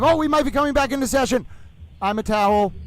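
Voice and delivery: towel hyping the session; lightly voiced excited towel; Little Towel voice. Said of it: "Stay with Little Towel".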